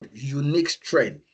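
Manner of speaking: unique given the main stress, falling. Shown as a demonstration. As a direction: punch unique before strength. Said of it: "my emphasis here is on the word".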